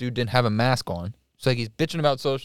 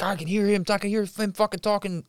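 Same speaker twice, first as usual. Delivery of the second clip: high-pitched imitated complaint; mock angry griping; 8 semitones higher than usual. Storyteller voicing a man irked by phone talk, mock angry griping. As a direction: gripe like the annoyed man.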